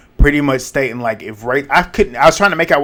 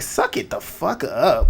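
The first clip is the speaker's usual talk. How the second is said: exasperated; 2 semitones higher, 5 dB quieter, slower than usual. Retold or imitated. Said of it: "I'm like".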